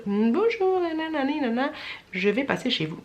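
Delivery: put-on high singsong greeting in an African accent. Vlogger imitating the delivery man's phone call, African accent. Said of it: "je fais l'accent africain".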